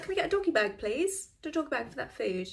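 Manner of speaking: high loud order to the waiter; bossy date. Retold or imitated. Date demanding a doggy bag, in a high bossy voice. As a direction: take charge of the leftovers.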